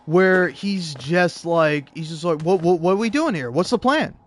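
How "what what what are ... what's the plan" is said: mock a pestering, condescending boss; needling repeated questions, imitating an annoying manager. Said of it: "in a really condescending and annoying".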